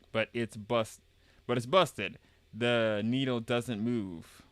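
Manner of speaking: slow, measured character read; game dialogue reading. Acted. Young adventurer explains a broken compass, slow character read. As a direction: read the lines out in character, taking time.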